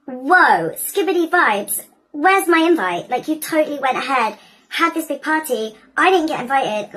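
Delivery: lightly acted affronted protest; indignant Maleficent. Maleficent confronts the party hosts who left her out, indignant.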